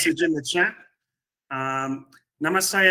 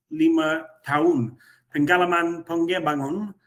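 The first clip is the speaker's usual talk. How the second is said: Indonesian with an Australian accent; halting non-native Indonesian; foreigner indonesian. Real, not acted. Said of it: "bahasa Indonesia saya belum lancar".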